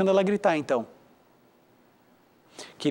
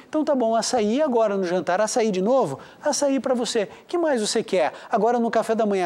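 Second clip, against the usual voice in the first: lightly acted pushover parent, pitched higher; indulgent parent; 3 semitones higher than usual. Parent offering a fussy child açaí and ice cream, mock indulgent. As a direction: imitate a parent giving in to every demand.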